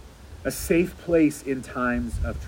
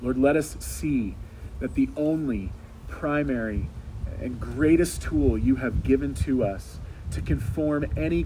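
earnest prayer. Acted. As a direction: lead the church in earnest prayer. Leads a closing prayer.

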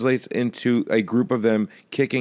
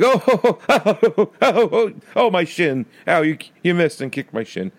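mock pain; 8 semitones higher than usual. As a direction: play kids yelping over kicked shins. Mimics cartoon kids kicking shins.

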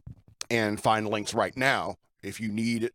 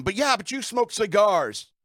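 high, drawn-out mock shout; imitated shouted comeback, pitched up; retold shout back; 8 semitones higher, 3 dB louder, slower than usual. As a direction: act out yelling back in protest. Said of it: "I just shouted back at him".

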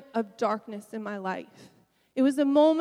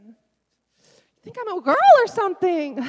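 higher and louder, slow, teasing herself; self-mocking joke; 7 semitones higher, 11 dB louder than usual. Real, not acted. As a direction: laugh off the tears with a joke. Joking about her own tears.

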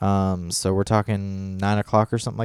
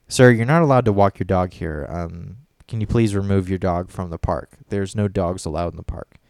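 polite request; 4 semitones lower than usual. Retold or imitated. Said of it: "couldn't have just said".

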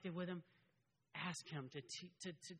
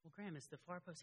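calm repeat; 8 dB quieter than usual. Retold or imitated. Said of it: "then I go".

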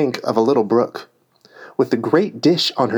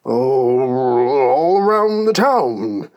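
nervous quiver. A narrator's reading. King interrupts to prevent a quarrel, nervous quiver. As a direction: let the voice wobble upward nervously. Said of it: "his voice quite quivered".

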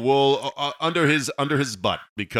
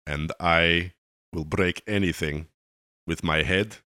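put-on Romanian accent; 4 semitones lower than usual. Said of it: "Ramon from Romania".

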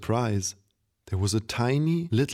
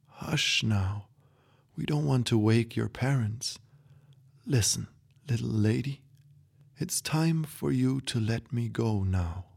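put-on a softer old grandpa hushing at night; 3 dB quieter than usual. Grandpa hushes her at night.

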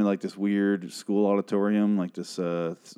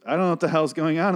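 delighted; 7 semitones higher, 4 dB louder, faster than usual. Retold or imitated. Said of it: "in the most wonderful way".

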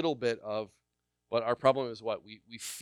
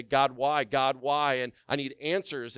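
accusing cry; 3 semitones higher, 6 dB louder than usual. Retold or imitated. Voicing someone accusing God.

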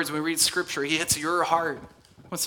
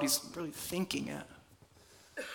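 much softer, slow near-whisper; hushed; 2 semitones lower, 14 dB quieter, slower than usual. Real, not acted. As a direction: drop to a hush as if sharing a secret. Hushed aside about hidden thoughts.

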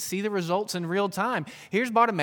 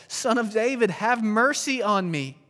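crying out; 3 semitones higher, 6 dB louder, slower than usual. Acted. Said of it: "But he cried out all the more".

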